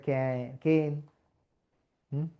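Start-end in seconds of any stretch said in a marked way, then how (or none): 0.1-0.9 "കെയിൻ" said as a short weak form of "can". Shown as a demonstration. Teacher showing the weak form of can. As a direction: reduce "can" to a quick "കെയിൻ". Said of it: "ക്യാൻ്റെ സ്ഥാനത്ത്".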